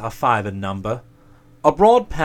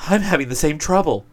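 higher whiny demon; envious demon voice; 6 semitones higher, 4 dB louder than usual. Acted. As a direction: grumble as a jealous demon. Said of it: "rejoined the demon of envy".

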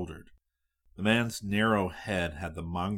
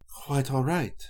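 smooth purring voice, pitched up; cat purr voice; 7 semitones higher, 4 dB louder than usual. A narrator's reading. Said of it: "the cat purr voice said".

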